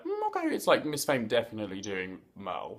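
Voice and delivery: skeptical shrug; unconvinced reaction. Retold or imitated. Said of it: "I was a bit like".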